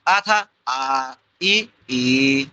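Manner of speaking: very slow, each आ stretched to double length; drawn-out long vowel. Shown as a demonstration. Teacher shows students the doubled vowel, stretched slowly. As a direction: hold the आ for twice as long. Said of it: "अब इसका दुगुना कर दो".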